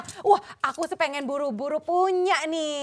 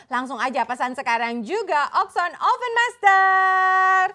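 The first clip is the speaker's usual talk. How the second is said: upbeat TV shopping pitch; infomercial. Acted. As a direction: sell it straight to the viewer at home. Host pitches product to viewers.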